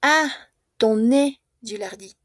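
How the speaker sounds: ton nez drawn out slowly for the class; slow model phrase. Shown as a demonstration. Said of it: "tu nariz, Gilardi".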